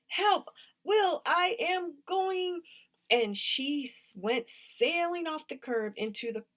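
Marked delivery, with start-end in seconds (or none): 0.1-2.6 high, loud, drawn-out cry for help; yelling for help. A narrator's reading. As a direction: yell at the top of your lungs while sliding. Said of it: "she was yelling at the top of her lungs".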